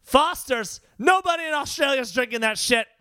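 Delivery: loud, high-pitched declaration; emphatic proclamation. Real, not acted. Co-host setting listeners straight about Foster's, emphatic. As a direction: proclaim it to the whole crowd. Emphatic debunk of a beer myth.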